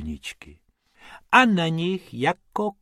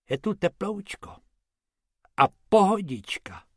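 high, cosy purr of approval; pleased, pitched-up relishing; contented; 7 semitones higher than usual. A narrator's reading. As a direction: savour the comfort. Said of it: "pochvaloval si Bobek".

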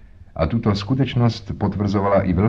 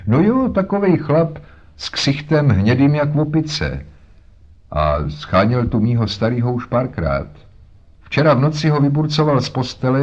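a hint of a chatty, higher-pitched working woman; lightly voiced boatman's wife; 4 semitones higher than usual. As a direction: talk like a harried mother. Voices Mrs Smith.

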